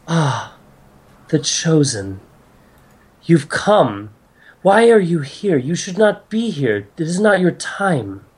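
lightly voiced goddess, solemn and measured; stately goddess. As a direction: greet the chosen ones with grave concern. Game master voices goddess.

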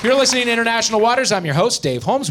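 loud, high, bright show open; big host welcome; game show host welcome. Acted. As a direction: welcome the crowd back like a quiz host. Host returns from break.

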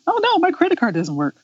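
high-pitched, hurried fake panic; mock dismay. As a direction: quote a drama character in mock distress. Mimicking drama characters in distress.

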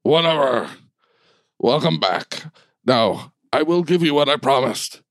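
lightly voiced commander, brushing objections aside; a hint of a self-important bulldog; giant bulldog leader. Bulldog promises the crew their reward, lightly acted commander.

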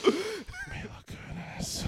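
drawn-out high swoony name; mock swoon. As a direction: swoon over the name slowly. Teasing mock swoon over actress.

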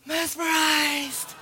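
mesmerized. Retold or imitated. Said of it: "so mesmerized by this person".

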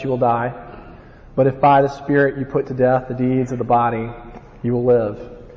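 measured Bible reading; scripture reading. Acted. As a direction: read the verses with weight. Reads scripture passage aloud.

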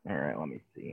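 talking around a spoon; words muffled by a spoon; spoon in mouth. Real, not acted. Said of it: "now I gotta take the spoon out".

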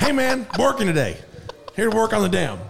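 exaggerated yeehaw country accent. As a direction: play the cowboy construction guy. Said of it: "your impression of someone".

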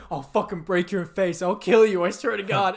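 mock a singer raging at a heckler; losing it. Storyteller as singer threatening a teenage kid, mock rage. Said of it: "the guy loses it".

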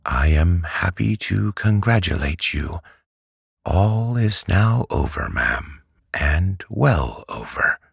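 high-pitched, meek congratulation; mild doctor, high and careful; timidly plucking up courage. A narrator's reading. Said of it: "as soon as he had courage".

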